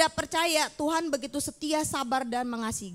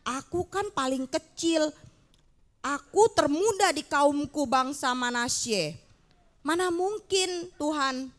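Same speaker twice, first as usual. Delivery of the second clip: doubting Gideon; slower than usual. Acted. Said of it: "Dia malah bilang begini".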